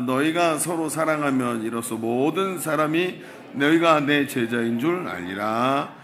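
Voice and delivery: slow, drawn-out Bible verse; measured, stretched read-aloud cadence; scripture reading. Acted. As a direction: lead a congregation reading in unison. Leads congregational scripture reading.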